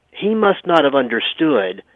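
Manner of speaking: dry mock agreement, tongue in cheek; lightly sarcastic aside to the listeners. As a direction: say it like you obviously mean the opposite. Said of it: "you can hear the sarcasm in my voice".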